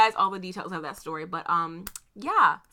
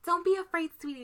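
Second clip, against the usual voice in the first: higher, hushed soothing voice; soft reassurance; 5 semitones higher, 8 dB quieter than usual. Retold or imitated. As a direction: imitate someone gently comforting a frightened person. Boss soothes her, retold.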